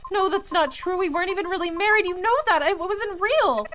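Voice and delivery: high, loud, fast tearful denial; crying protest. Acted. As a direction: cry out that it wasn't real. Pleading denial to ghost.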